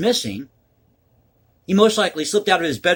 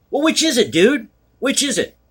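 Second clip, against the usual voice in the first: incredulous; 6 semitones higher, 3 dB louder than usual. Real, not acted. Calls out contradiction, incredulous.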